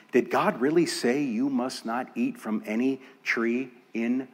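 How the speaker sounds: mildly sceptical, insinuating question; incredulous tempter. Acted. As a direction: lightly cast doubt as the tempter. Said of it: "it was in that kind of tone".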